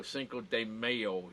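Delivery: slow Chicago-style "Cinco de Mayo" with a "teɪ"; Chicago accent. Shown as a demonstration. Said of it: "that's how we say it in Chicago".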